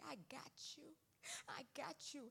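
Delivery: soft comforting whisper; tender whispered reassurance. Retold or imitated. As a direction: breathe it like an embrace. God's embrace, whispered.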